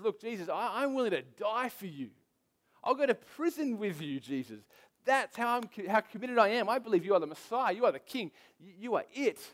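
mildly hammed-up eager devotion; fervent pledge. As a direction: declare it like a keen, committed follower. Acting Peter's committed pledge to Jesus.

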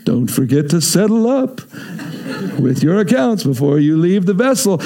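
lightly put-on Australian cruise director; Australian accent. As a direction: imitate an Australian announcing over the ship's speakers. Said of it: "had this amazing Australian accent".

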